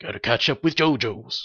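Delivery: low, quiet bored sigh. Retold or imitated. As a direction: mumble it like a bored slacker. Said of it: "I'm normally just a little bored".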